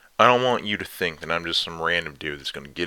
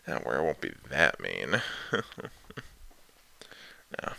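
teasing dom lover; slower than usual. Acted. Dominant lover teasing listener.

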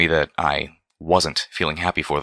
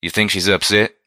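a hint of a drawling pony friend, questioning; Calamity, concerned friend; 3 semitones higher, 3 dB louder than usual.

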